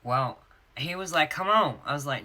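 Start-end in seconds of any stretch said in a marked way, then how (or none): 1.3-1.8 loud, high exasperated protest; exasperated husband. Retold or imitated. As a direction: imitate a husband losing patience. Husband protests in acted quarrel.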